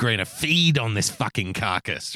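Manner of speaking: low-pitched mock scavenger voice; lightly voiced predator craving a meal; hungry outrage drone. Co-host voicing the outrage industry, mock hungry drone.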